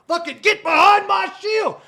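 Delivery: high, shouted hero's battle cry; hammed-up knight in shining armor yelling; mock knight shout. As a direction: play the gallant knight bellowing. Mock knight defending friend.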